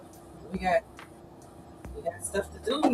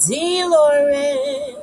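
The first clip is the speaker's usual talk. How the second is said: Dolores with a rolled Spanish lilt, higher and louder; Spanish accent; 9 semitones higher, 7 dB louder than usual. Shown as a demonstration. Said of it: "Put a little accent on it".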